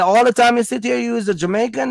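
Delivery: high, incredulous mock question; retold disbelief. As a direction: act out the shock of finding out.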